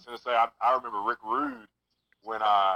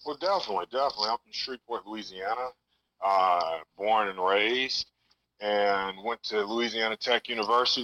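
talking down a phone line; phone speaker. Real, not acted. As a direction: voice through a speakerphone. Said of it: "You're, you're on speakerphone right now".

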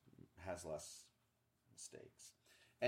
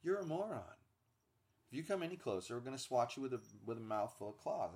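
snooty cat voice; faster than usual. Retold or imitated. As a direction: sneer down at the dog. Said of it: "they're looking at him like".

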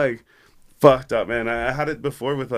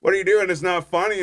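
high, louder mock of an irritated girl; annoyed girlfriend; 8 semitones higher, 4 dB louder than usual. Girlfriend repeats complaint.

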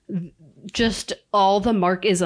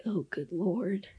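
exasperated; 11 dB quieter, slower than usual. Retold or imitated. Teen eye-roll voice imitated.

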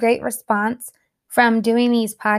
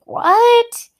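much higher, louder startled cry; shocked what; 12 semitones higher, 4 dB louder than usual. Retold or imitated. Mom hearing the doctor's alarming news, shocked and high. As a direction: react like the news just hit you. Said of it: "I was like".

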